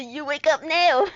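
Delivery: rough attempt at a Russian accent. Captor waking the prisoner, mock Russian accent. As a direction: order them about with a mock Russian accent. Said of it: "this guy is probably Russian".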